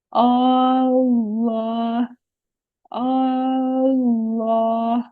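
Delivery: अल्लाह slow, the lam stretched and made thick and full; heavy drawn lam. Shown as a demonstration. Teacher recites अल्लाह slowly to show the heavy lam. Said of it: "खींच कर और मोटा पढ़ना है".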